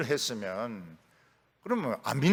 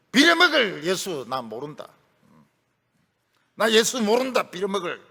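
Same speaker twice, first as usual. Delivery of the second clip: acted angry denial with loud bursts; mock swearing, punching the oaths; Peter cursing; 5 dB louder than usual. Disciple denying he knows Jesus, cursing with mock anger. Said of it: "이렇게 하면서 욕까지 하고 저주까지 하니까".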